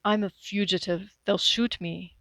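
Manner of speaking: flat. Acted. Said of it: "Manfred said flatly".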